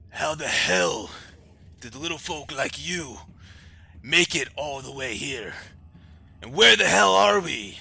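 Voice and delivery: high, loud royal demand; bewildered, forceful king. Acted. King looks at the party all around, bewildered and demanding. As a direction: boom the questions out in disbelief.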